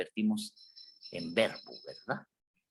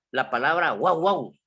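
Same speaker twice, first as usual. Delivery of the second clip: dog bark imitation; 3 semitones higher, 5 dB louder than usual. Shown as a demonstration. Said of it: "designa el ladrido de un perro".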